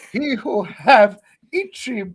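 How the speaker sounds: slow, lightly voiced mock sage saying. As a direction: intone it slowly like a joke proverb. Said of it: "Confucius say".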